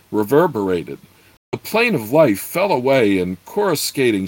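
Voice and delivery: animated fantasy narration with character voices lightly done; story narration. A narrator's reading. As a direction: read the novel to listeners with flair. Reading a fantasy novel aloud.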